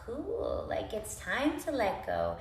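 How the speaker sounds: soft, sighing relief; relaxed calm voice. Pretend. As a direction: let it all melt away. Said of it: "our nervous system is like".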